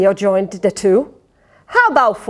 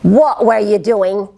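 mild demand; 3 dB louder than usual. Acted. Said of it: "they demanded".

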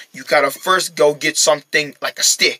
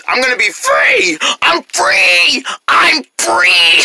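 joyful shout; 10 semitones higher, 3 dB louder, much slower than usual. Acted. Celebrating freedom.

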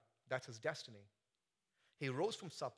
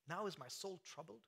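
"Now is my soul troubled" asked softly, rising at the end; incredulous question; 4 semitones higher, 6 dB quieter than usual. Shown as a demonstration. Preacher questioning the verse, soft rise.

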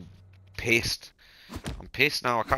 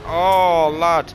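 loud, raised burst of excitement; sudden outburst; 5 semitones higher, 9 dB louder than usual. Real, not acted. Streamer interrupting himself at a wild moment, excited outburst. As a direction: blurt it out, caught off guard.

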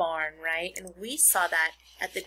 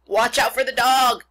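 loud, higher warning shout; crying out; 5 semitones higher, 13 dB louder than usual. A narrator's reading. Sheep warns the pig about the dog, crying out. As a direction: holler the warning out. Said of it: "cried the sheep".

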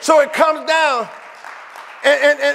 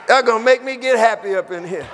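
getting happy; 6 semitones lower, faster than usual. Real, not acted.

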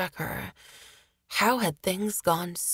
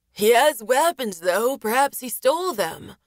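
higher, louder eager accusation; loud accusing soldier; 5 semitones higher, 4 dB louder than usual. A narrator's reading. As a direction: call it out eagerly.

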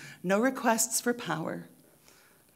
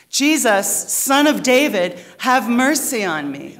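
loud, raised cry for mercy; yelled plea; 5 semitones higher, 10 dB louder than usual. Acted. Preacher leads congregation in the beggar's cry, yelling. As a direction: yell it to rally everyone along, short of full force. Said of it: "Let's do it again".

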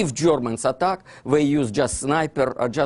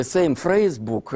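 usual speaking voice

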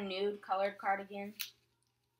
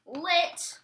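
excited; 7 semitones higher, 4 dB louder than usual. Retold or imitated. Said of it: "I was like".

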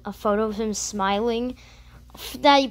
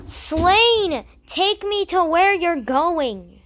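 excited call; 5 semitones higher, 5 dB louder, much slower than usual. Real, not acted. Excited at companion.

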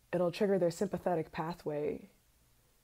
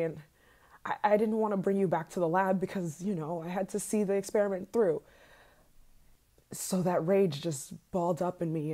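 louder, faster, agitated venting; rising anger; 3 semitones higher, 4 dB louder than usual. Acted. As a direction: let the jealous rage boil over. Obsessive rant boiling into rage.

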